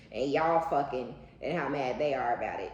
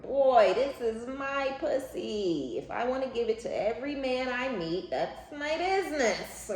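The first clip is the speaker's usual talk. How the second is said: sassy defiance; 10 semitones higher, 4 dB louder than usual. Retold or imitated. Imitating a defiant woman telling a man off, sassy. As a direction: toss it off like nobody's business.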